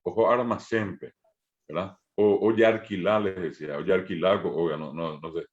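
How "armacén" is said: armacén with a tapped R, ar-ma-CÉN. Shown as a demonstration. Teacher shows students how almacén becomes armacén, tapped R. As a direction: say armacén, the L turned into an R. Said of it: "y decir después armacén".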